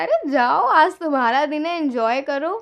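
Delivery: loud, high, cheerful send-off; cheery in-laws. Retold or imitated. In-laws cheering the couple off to enjoy themselves, loud and cheerful. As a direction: shoo them off happily to enjoy their day.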